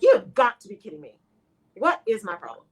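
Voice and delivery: a loud burst of irritation at yourself; irritated. Retold or imitated. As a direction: snap at yourself, fed up. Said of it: "you move to just irritated".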